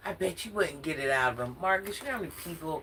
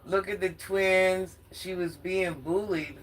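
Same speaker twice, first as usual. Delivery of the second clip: slow, drawn-out mock of his accusations; slow sarcastic imitation of Marcus's complaint; mocking quote; slower than usual. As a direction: drag each word out to ridicule him.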